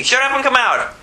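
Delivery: high, forceful dismissal; acted exorcising command; quick, easy rebuke. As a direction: toss the demon out in one brisk order. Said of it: "That's how quick, that's how easy".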